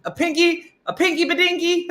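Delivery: high, loud, incredulous repeat; high mock disbelief; baffled echo. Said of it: "he's like".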